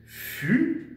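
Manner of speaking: « Fusée » as two long, rising beats; split into syllables. Shown as a demonstration. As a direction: dictate « Fusée », high fu, pause, zée. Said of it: "nous allons revoir le mot". (« Fusée » découpé, syllabes montantes)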